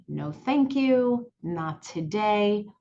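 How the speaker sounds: slow, measured, polite refusal; firm calm refusal. Shown as a demonstration. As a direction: decline slowly and steadily. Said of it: "very firmly, but calmly say".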